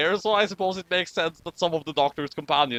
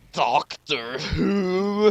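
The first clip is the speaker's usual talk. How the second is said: calling out; much slower than usual. Acted. Characters call out the name.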